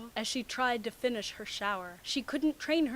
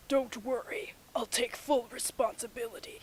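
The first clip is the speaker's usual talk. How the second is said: whisper. Acted. Kakashi quote whispered.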